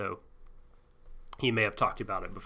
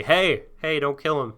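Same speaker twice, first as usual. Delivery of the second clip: raised, higher urgent plea; pleading call; 5 semitones higher, 6 dB louder than usual. Retold or imitated. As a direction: call out to stop the shooting. Max pleading for Frog's life.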